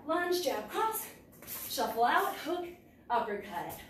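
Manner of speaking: calling strikes while punching; punching through the combo; hitting a punching bag. Real, not acted. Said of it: "before you get into your combination".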